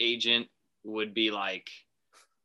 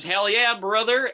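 higher and louder, bro-style enthusiasm; hyped agreement; 10 semitones higher, 5 dB louder, slower than usual. Retold or imitated. Gutekunst sealing the deal, hammed-up hype. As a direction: pump it up like a buddy. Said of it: "And Gutekunst says".

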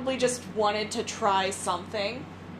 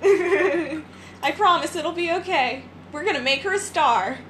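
high, sugary persuading voice; sweet pushy woman voice; 5 semitones higher, 3 dB louder than usual. Retold or imitated. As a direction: coax like a smooth talent agent. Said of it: "She was like".

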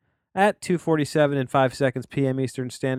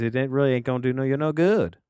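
put-on Southern accent; 3 semitones higher, 3 dB louder, faster than usual. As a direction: slip into a folksy Southern accent for a joke. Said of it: "I don't know why I went Southern there".

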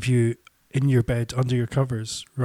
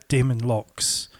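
slow and clear; slower than usual. Real, not acted. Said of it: "say the name of it again".

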